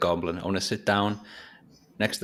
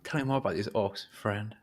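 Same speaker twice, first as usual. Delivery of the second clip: softer, friendly ask; nicer way; 5 dB quieter than usual. Shown as a demonstration. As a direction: coax him gently. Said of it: "In a, in a nicer way, though".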